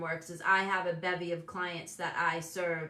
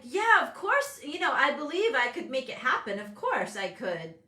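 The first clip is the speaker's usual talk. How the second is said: bright, higher, sure of herself; talking herself up; confident bravado; 5 semitones higher, 4 dB louder than usual. Retold or imitated. Mom telling herself she can make it happen, confident. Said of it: "I'm like".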